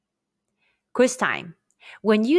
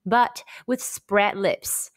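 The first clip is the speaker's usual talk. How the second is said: slow, drawn-out cheese; slowly, as if teaching mouth shape; slow demo; much slower than usual. Shown as a demonstration. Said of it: "just like when taking photos".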